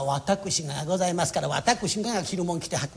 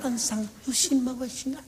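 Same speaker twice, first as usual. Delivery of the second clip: slow, soft flattery; coaxing teacher; 4 semitones higher, 6 dB quieter, slower than usual. Acted. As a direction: linger on the praise. 師匠が節回しを褒める. (ゆっくり甘くおだてる師匠)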